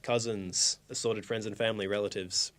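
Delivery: mock formal speech. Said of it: "I want a speech".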